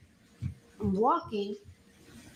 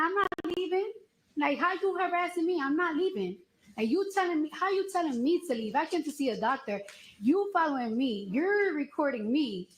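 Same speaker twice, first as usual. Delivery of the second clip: higher-pitched indignant retold argument; retold heated protest; 4 semitones higher than usual. Telling off the guard who says leave, indignant and high. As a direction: push back hard, pitched up in disbelief.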